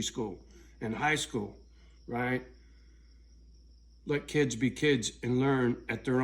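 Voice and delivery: loud, heated ranting, building to a shout at the end; real anger spilling over, voice climbing; angry rant. Real, not acted. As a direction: jab every point at them, getting hotter. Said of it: "A little angry today".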